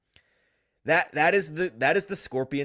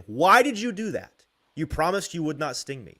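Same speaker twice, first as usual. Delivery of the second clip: betrayed frog; 5 semitones higher, 5 dB louder than usual. Acted. Frog voiced in told fable.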